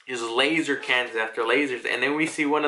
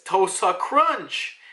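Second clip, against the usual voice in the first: attack call; 6 semitones higher, much slower than usual. Retold or imitated. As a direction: bellow the technique like an anime attack. Vice admiral calling his attack.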